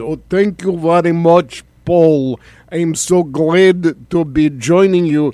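hammed-up Russian accent, a touch slow; mock Russian accent, lightly done; bad Russian accent. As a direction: play a Russian oligarch guest in a bad Russian accent. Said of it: "joining us with a really bad accent".

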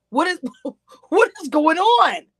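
high disbelieving laugh through the words; laughing in disbelief. Real, not acted. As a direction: laugh at how absurd it is. Incredulous laughing at the host.

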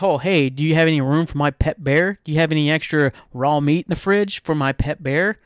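hammed-up nagging at the host; mock party rant. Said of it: "I'm like".

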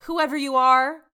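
a hint of a ditzy heiress; light London impression. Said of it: "London is like".

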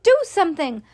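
high, urgent order; mock scream. A narrator's reading. Wife screams at her husband to act, high urgent cry. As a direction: urge him on, pitched well up. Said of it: "screamed at Mister Gloop".

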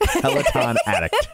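Midwest accent, "addict" nearly "attic"; midwestern accent. Real, not acted. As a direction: Midwestern vowels, light touch. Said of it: "careful with my Midwest accent".

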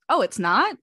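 put-on sarcastic surprise, lifted in pitch; sarcastic little voice. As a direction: imitate a mock-innocent, sarcastic question. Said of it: "sarcastic little voice".

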